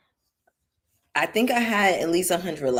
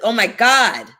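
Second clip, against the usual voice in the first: higher and louder, a scandalized mom; exasperated mother; 5 semitones higher, 9 dB louder than usual. Retold or imitated. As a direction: gasp it like a shocked mother. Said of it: "She's like".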